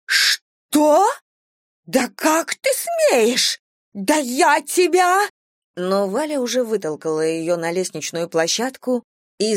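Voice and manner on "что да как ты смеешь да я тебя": outraged sputter. Acted.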